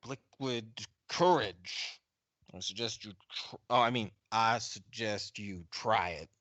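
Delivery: put-on odd Southern accent, words spaced out; Frank Patterson. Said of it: "in this really strange, uh, Southern accent".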